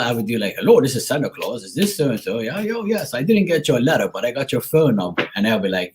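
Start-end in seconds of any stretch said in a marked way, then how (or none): 0.6-5.3 put-on a light Bermudian Santa accent on the phone; prank-calling friends as Santa; a hint of Bermudian accent, playful. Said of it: "And I used to do his voice".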